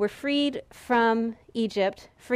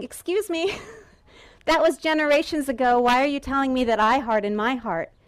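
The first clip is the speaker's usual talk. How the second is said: mock objection; 3 semitones higher than usual. Preacher voices an objecting listener.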